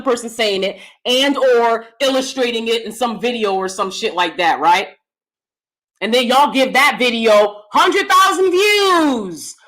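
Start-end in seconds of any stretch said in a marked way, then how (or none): 6.0-9.5 exasperated shout. Real, not acted. Ranting at viewers.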